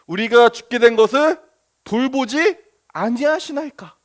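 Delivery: indignant sulky question; sulky reproach. Retold or imitated. Scene: disciples reproach Jesus in Mark, sulky. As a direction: accuse him with hurt pride. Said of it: "좀 많이 격해졌죠".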